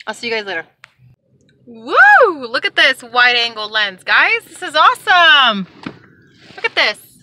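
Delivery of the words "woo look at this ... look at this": real delighted whoop, lifting pitch; excited. Real, not acted. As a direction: marvel aloud at a new gadget. Real delight at new lens.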